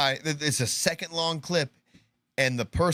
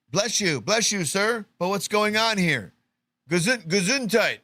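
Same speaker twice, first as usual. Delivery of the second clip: slightly mock-polite, higher-pitched bystander; lightly acted anxious politeness; 5 semitones higher than usual. Host as bystander blessing a sneezer during gunfire, lightly mock-polite. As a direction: lightly play a courteous man trying to get an answer.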